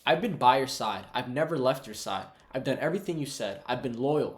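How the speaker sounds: mildly heated, aggrieved complaint; pissed-off son. Retold or imitated. Loyal son protesting to his father, moderately angry. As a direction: retell a loyal son's indignant protest. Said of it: "he's pissed off".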